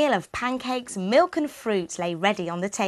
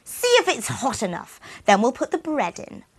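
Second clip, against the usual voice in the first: witch; 4 semitones higher than usual. Acted. Witch tempting.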